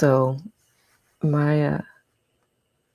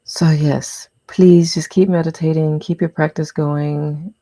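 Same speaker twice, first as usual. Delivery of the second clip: louder urgent plea; emphatic; 7 dB louder than usual. Real, not acted. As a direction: push it out loudly.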